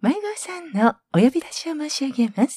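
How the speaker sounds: put-on lost child announcement voice; a department store PA announcement; store announcer voice. Shown as a demonstration. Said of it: "うまいね".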